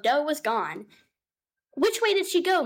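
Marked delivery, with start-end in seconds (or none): 1.7-2.6 high, fussing cat voice; a worried cat housewife, pitched up; fretful mother cat. Acted. Mother cat Tabitha greeting her cousin, high and fretful.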